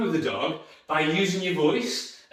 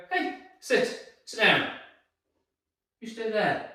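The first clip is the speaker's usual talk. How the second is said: firm command; 3 semitones higher than usual. Shown as a demonstration. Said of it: "I'd go".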